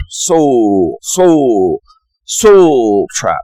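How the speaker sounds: imitating a South African accent on soul trap; a rough stab at a South African accent. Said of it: "I'll try to do the South African accent".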